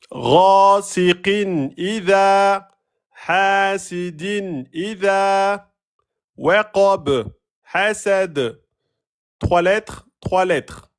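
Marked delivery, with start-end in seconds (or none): 0.1-8.6 slow parallel chant, long "Ghasiqin" and "hasidin", short "waqab" and "hasad"; matching rhythm. Shown as a demonstration. Teacher showing the pattern, "hasidin idha" in even chanted rhythm. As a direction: beat out "idha" long, then "hasad" short with a bounced ending. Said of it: "Vous voyez le rythme?".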